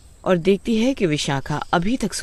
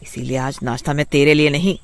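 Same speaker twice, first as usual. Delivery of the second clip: angry retort. Acted. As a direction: snap back at the old woman. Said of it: "गुस्से में उठती है और माँ से बोलती है".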